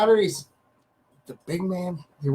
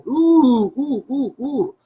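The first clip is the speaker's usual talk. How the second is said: high-pitched run of "ooh"s; mock-pained "ooh, ooh"; sympathetic oohing; 6 semitones higher, 3 dB louder, much slower than usual. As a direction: wince out loud in short high oohs. Reacting to someone's burn.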